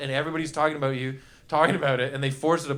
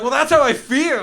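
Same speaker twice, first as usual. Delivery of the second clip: higher, louder, pleading innocence; mock earnest defense; 8 semitones higher, 8 dB louder than usual. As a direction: say it like it makes total sense. Defends his cool mist answer.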